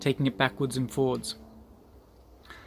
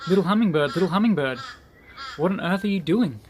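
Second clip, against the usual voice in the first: louder, higher mock call to the bird; animals calling out; 5 semitones higher, 5 dB louder than usual. Forest animals shouting to the hummingbird, raised and higher. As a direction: call out to the little bird in disbelief.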